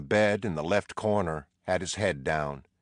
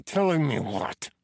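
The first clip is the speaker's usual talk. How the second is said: rising challenge; 9 semitones higher, 4 dB louder than usual. A narrator's reading. Prisoner challenges Teddy.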